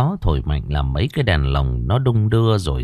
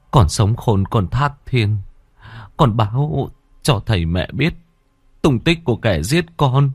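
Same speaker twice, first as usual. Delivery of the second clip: pleading father; 4 semitones higher than usual. Acted. Father pleading with daughter's spirit.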